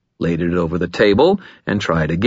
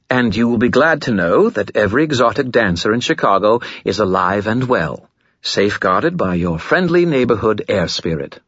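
boastful skull voice; 4 semitones higher than usual. Acted.

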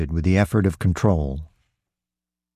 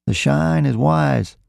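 slow, higher-pitched aside; confiding in an ear; 7 semitones higher, slower than usual. A narrator's reading. Roy in his partner's ear on the train, confiding. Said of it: "said Roy in my ear".

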